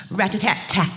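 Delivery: spoken woodpecker drumming; drumming sound. Shown as a demonstration. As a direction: tap it out with the voice. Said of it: "drumming against a coconut palm".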